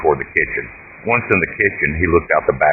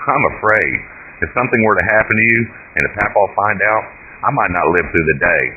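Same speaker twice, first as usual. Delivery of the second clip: mildly fearful, raised pitch; a hint of a scared boy; worried boy, a touch nervous; a little fear; 5 semitones higher than usual. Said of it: "A little fear could be heard in Doug's voice".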